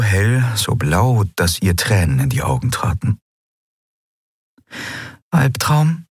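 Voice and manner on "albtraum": Nelen's question. Acted. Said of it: "fragte Nelen".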